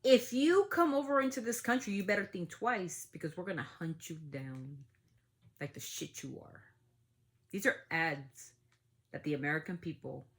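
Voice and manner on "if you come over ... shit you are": hammed-up government ad threat; imitating the Homeland Security ad; mock official threat. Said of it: "the type of language".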